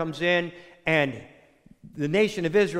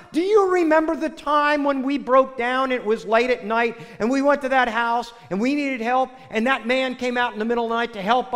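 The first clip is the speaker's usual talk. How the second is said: higher-pitched, insistent acted scolding; reproachful wife; 5 semitones higher than usual. Wife urging husband to help stranger, mock reproach. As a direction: plead the case like a chiding wife.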